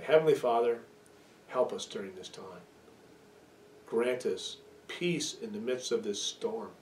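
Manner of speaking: pastor leading the congregation in prayer; closing prayer. Acted.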